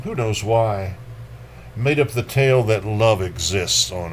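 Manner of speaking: measured, dark poetry recital; lightly dramatic poem reading. Acted. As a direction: read it like a grim memory. Reads Akhmatova poem.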